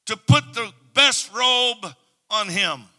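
"best" held long, slow and loud; stress on best. Acted. Father ordering servants, slow with "best" stressed. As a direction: lean hard on "best". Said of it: "He said to the servants".

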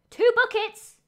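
loud, high shocked outburst; shocked exclaim. Real, not acted. Realizing she needed two buckets, loud shocked cry. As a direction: blurt it as the mistake dawns.

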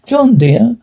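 tender, coaxing call to her husband; generous voice. A narrator's reading. Wife coaxing her husband through the locked door, tender. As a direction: sweetly call him by name. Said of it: "said I, with a generous voice".

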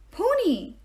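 high, delighted exclamation; rapturous cry. A narrator's reading. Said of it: "he cried in total rapture".

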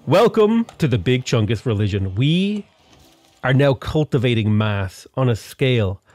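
pompous prophet's speech, slowing down at the end; mock grand proclamation. Mock grand religion founding speech.

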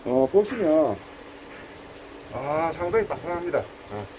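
stiff lips, blurred words; lips numb from cold. Real, not acted. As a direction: talk with frozen lips. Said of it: "입술이 안 움직여서 안 되겠다".

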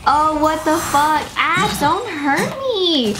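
stretched, pleading complaint; dismayed alarm. Real, not acted. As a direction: wail in dismay at the enemies. Enemies turn out high level.

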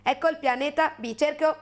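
lightly voiced alien, evenly spaced words; Ioto alien. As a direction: list the silly planet names evenly like an alien. Ioti present their planet.

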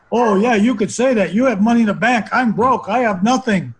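imitating his younger, angry self, a touch heated; retold anger. Broke son snaps back at his calm mother, mild mock anger. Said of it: "I was so angry".

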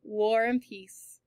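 slow drawn-out War and peace; slow teasing repeat of War and peace. A narrator's reading. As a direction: tease her with it slowly. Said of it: "he called out".

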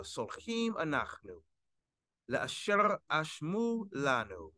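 slow, measured Sephardic Hebrew recitation; textbook Sephardic pronunciation. Shown as a demonstration. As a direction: draw out each phrase to show how it is pronounced. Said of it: "the textbook way, uh, the Sephardic dialect".

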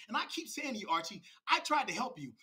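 strained plea, starting high; a touch high-strung, pleading with a rival. Real, not acted. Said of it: "I don't know why I'm talking in this voice".

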